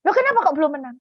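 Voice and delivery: high, loud mock wifely questioning; puzzled nagging wife. Wife asks husband why no victory, high puzzled voice.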